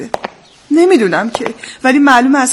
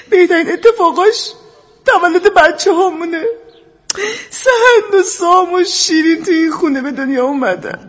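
choked-up reminiscing, close to crying; on the verge of tears; tearful; 3 semitones higher than usual. Acted. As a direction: let tears creep into a fond memory.

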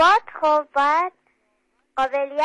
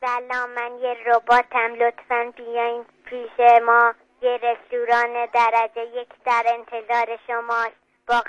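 flat, level robot announcer. Pretend. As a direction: pitch a restaurant as a robot. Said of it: "تو یک رباتی هستی که گذاشتنت جلو در یه رستوران".

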